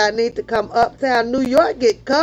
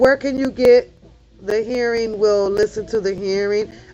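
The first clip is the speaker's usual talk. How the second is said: ordinary talk, nothing marked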